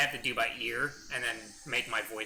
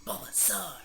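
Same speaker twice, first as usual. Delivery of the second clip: higher cartoon creature cry; Bulbasaur; 4 semitones higher, slower than usual. Streamer showing off Pokemon anime voices, raised creature cry. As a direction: cry out your name as a small monster. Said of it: "anime voices".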